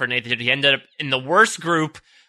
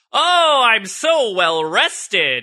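overly chipper; 4 semitones higher, much slower than usual. Retold or imitated. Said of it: "or what you do is you're like".

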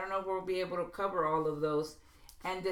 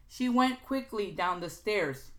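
"She went quickly down the stairs" read slowly, "went" stressed; slow example read; 2 semitones higher, 4 dB louder than usual. Shown as a demonstration. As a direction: spell out the weak version deliberately. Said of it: "Look also for weak verb".

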